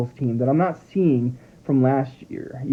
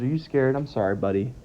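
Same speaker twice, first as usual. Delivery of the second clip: soft soothing to dog; 6 dB quieter than usual. Real, not acted.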